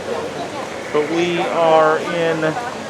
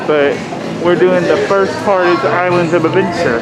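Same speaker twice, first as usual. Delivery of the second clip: muffled behind a face mask; through a mask. Real, not acted. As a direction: talk through a covering mask. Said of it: "sorry if you can't understand me with my mask on".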